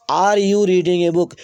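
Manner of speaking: slow read with Are pushed forward; stress on Are. Shown as a demonstration. Teacher pointing out the helping verb Are to students, slow stress. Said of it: "अगर किसी भी tense का वाक्य सहायक क्रिया से प्रारंभ".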